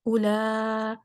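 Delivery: "اولا-" held long, then cut off; "اولا-" broken off before the hamza; left off midway. Shown as a demonstration. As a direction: stop dead after a long "la" in "اولا-". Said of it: "اب یہاں پہ میں چھوڑ دوں گی".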